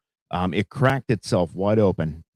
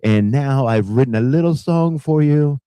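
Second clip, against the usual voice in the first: Donald Trump impression; 3 semitones higher than usual. Host lampooning Trump bragging to his listeners, lightly voiced Trump impression. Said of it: "Trump, you know, he just talks and he exaggerates".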